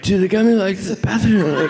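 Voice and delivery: high, laughing frantic voice; high mock-frantic friend; high panicked friend. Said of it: "it sounded more like".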